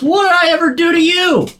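hammed-up dying plea; dying dentist. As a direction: whine it out with his last breath. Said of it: "and he goes".

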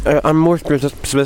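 talking through food; words round a mouthful; mouth full. Real, not acted. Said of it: "Sorry, I've got my mouth full".

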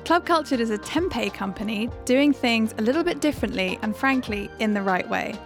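upbeat host intro over music; podcast intro read. Acted. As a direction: read it like a show opener.

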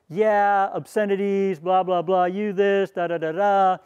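mock the girls shouting through the door; mock defiant yell. Girls yelling back defiantly.

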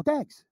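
"Dogs" as a high-pitched "Dags"; pikey pronunciation. Shown as a demonstration. Pikey repeating himself to a baffled man, "Dogs" said as "Dags". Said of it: "the difference in the way they talk".

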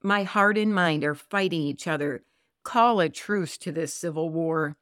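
earnest Bible reading to listeners; scripture reading. Acted. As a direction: read the psalm with steady devotion. Reads Psalm 25 aloud.

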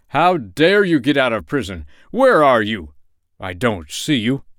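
loud, indignant demands; outraged. A narrator's reading. King confronts prisoner he cannot see, loudly indignant. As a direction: demand answers from an unseen intruder.

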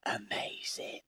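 a soft unvoiced whisper; hushed "Amazing" to the room; whispered aside. Real, not acted. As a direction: breathe the word as an aside. Whispered aside mid-story.

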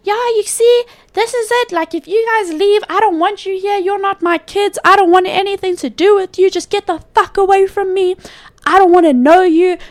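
high mock mother voice; mocking mom. Daughter imitates mother disowning her kids, high mocking voice. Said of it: "my mom's all like".

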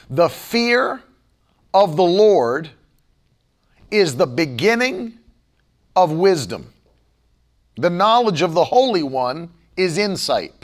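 deliberate recitation with long pauses; scripture reading. Acted. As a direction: read the proverb phrase by phrase, weightily. Reads a proverb aloud.

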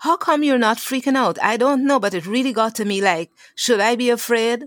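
put-on a scared kid asking for reassurance; worried child.

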